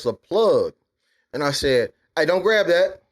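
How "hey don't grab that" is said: raised, higher, firm "don't grab that"; stern warning to a toddler. Retold or imitated. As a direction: snap a warning at the baby heading for the plug. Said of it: "I said it like that".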